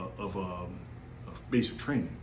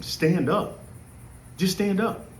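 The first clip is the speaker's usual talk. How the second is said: put-on pitched way up, calling out to the kid; mock group yell; 8 semitones higher, slower than usual. Crowd yelling at the drowning trainee to stand up, pitched high. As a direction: shout it up at him from the poolside. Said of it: "Everybody is yelling at him".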